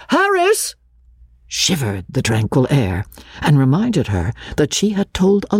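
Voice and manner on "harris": much higher shouted name. Acted. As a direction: call the name across the garden. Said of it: "her mother's shout of".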